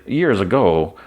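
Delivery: lightly put-on old New York gangster accent; heavier gangster accent. Ben bluffing the hospital nurse in a heavier gangster accent. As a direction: lean a little into a gangster accent. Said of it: "with a, like, heavier accent".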